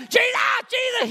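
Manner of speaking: desperate call. Retold or imitated. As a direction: call out over the crowd. Blind man calling out to Jesus.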